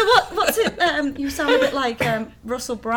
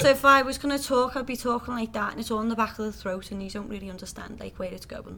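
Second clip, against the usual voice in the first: Liverpool accent from the back of the throat; 8 dB quieter than usual. Shown as a demonstration. Showing her home accent on request, throaty Liverpool. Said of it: "Can you do it?".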